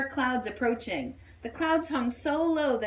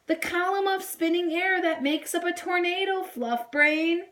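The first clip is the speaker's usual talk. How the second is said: know-it-all; 8 semitones higher than usual. A narrator's reading. Doll explains teasingly.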